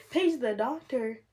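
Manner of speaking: slow, disbelieving repeat of Page the doctor; incredulous echo. Real, not acted. Mother echoing the nurses' order in slow disbelief. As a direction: Page the doctor said back slowly, stunned.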